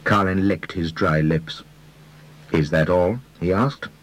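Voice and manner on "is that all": shaky, sneering question; a hint of a failing sneer; attempted sneer. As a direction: try to sneer but it wobbles. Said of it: "with an attempt at a sneer".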